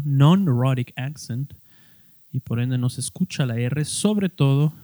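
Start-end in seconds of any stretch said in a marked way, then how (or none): 0.0-1.5 non-rhotic accent said in English; English term. Shown as a demonstration. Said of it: "un acento no rótico".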